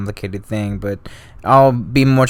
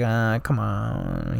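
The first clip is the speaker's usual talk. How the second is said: mock Polk; 9 dB quieter, much slower than usual. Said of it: "He's kinda just like".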